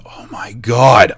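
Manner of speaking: drawn-out, loud exclamation of dismay; retold dismay. Reacting to a damning post, aghast. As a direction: stretch it out, aghast.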